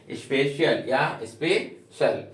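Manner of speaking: स्पेशल first as "spe-shi-al", then as "spe-shal"; two pronunciations. Shown as a demonstration. Teacher giving both ways to say स्पेशल, slowly. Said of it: "उच्चारण आपको करना है".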